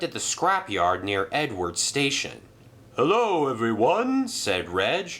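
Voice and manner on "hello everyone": higher, louder greeting; lightly voiced cheerful crane. Reg the crane greeting the engines, higher and louder. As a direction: call out a hello.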